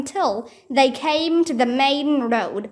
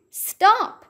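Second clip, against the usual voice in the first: very high sharp shout; urgent shout; 8 semitones higher, 3 dB louder than usual. Acted. Jack shouting to Annie as arrows fly. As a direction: make her stop at once. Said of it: "Jack shouted to Annie".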